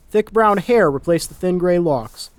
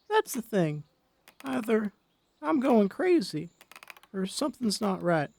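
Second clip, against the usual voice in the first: put-on a frail old wife quietly afraid she's losing her mind; worried old Molly; 5 semitones higher, 3 dB quieter than usual. Wife confides her fear on the porch, soft high old voice.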